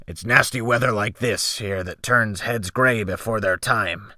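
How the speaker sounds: put-on weathered old seaman; gruff old sailor. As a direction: play the salty old captain. Sea captain voiced in story.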